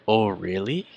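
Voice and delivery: interested "oh, really?" with a rising end; mildly surprised listener reaction. Shown as a demonstration. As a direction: acknowledge surprising news with interest. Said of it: "someone says something surprising or something interesting".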